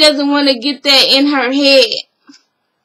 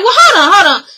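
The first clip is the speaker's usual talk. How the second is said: hold on; 5 semitones higher, faster than usual. Retold or imitated. Benzino cutting in on Kirk.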